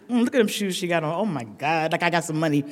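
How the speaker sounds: low, soft mock muttering; back-row gossip. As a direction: play a nosy aside under your breath. Acts out back-row chatter.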